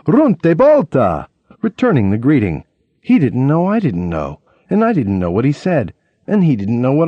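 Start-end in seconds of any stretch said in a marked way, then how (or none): 0.1-1.3 higher, slow, louder fake Italian; answering the gardener in fake Italian; calling back. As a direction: shout a greeting across a field. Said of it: "I call back".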